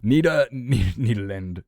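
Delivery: careful Dutch Nederland; native pronunciation. Shown as a demonstration. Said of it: "do you Nederland".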